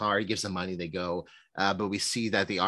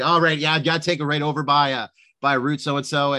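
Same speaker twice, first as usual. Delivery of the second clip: lightly voiced stoner, higher and louder; hint of a stoner giving directions; 5 semitones higher, 6 dB louder than usual. Podcaster quoting film's stoner giving directions, light stoner impression. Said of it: "Brad Pitt's stoner character in this".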